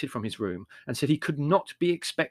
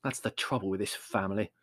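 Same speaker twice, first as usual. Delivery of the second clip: bitter; 3 semitones lower, 6 dB quieter than usual. A narrator's reading. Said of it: "said Larry bitterly".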